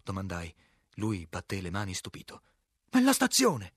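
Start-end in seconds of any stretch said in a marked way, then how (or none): 2.9-3.7 high, loud cry of recognition; astonished shout. A narrator's reading. Director to narrator on spotting the building, astonished shout. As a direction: cry out, pitch leaping up. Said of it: "gridò".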